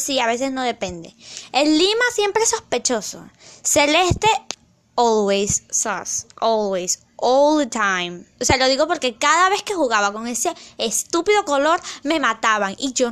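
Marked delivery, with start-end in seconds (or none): 5.0-8.2 deadpan sass. Acted. Mocking the celeste color.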